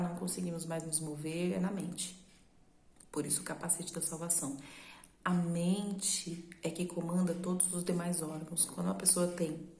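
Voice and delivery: ordinary talk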